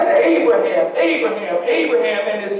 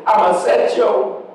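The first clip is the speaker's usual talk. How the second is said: mock parent threat, low and slow with a laugh; 3 semitones lower than usual. Parent warning the child, mock threat. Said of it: "my parents used to say".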